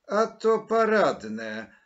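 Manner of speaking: loud, high, drawn-out indignant cry; exclaiming. A narrator's reading. Maryla reacts to Mateusz's explanation, indignant exclamation. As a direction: exclaim in outraged disbelief, stretching it out. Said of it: "zawołała Maryla".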